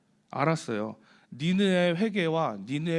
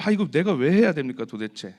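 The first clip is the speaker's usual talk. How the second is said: louder, fed-up grumble; exasperated complaint; 6 dB louder than usual. Retold or imitated. Believer grumbling to God about unwanted duty, exasperated and louder. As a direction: let the annoyance push the words out.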